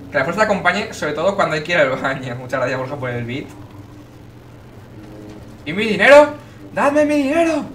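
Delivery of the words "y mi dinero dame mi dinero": high, loud demand for money; demanding shout. Pretend. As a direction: yell it like a ripped-off character. Demanding money, acted outburst.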